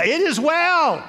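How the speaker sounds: "It is well" slow and lifted, each word weighed; serene insistence. Retold or imitated. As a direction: say "It is well" slowly, calm and firm. Refrain to doubters.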